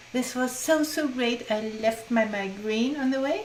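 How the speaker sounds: lightly lifted, eager retelling; a touch of delight, voicing her joy; retold enthusiasm. Workshop participant telling the group her migraine lifted, mildly excited. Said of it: "she was very enthused in the group".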